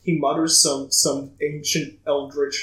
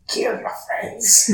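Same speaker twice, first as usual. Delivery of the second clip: parrot voice; 7 semitones higher, slower than usual. Acted. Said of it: "parrot voice prepared".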